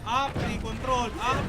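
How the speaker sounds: loud rhythmic count for the team; calling out commands. Real, not acted. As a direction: call each move out firmly. Calling counted moves to teammates.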